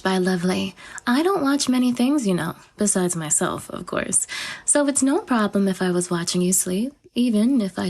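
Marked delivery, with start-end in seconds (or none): 3.7-4.3 quiet aside. Acted. Offhand aside, trailing.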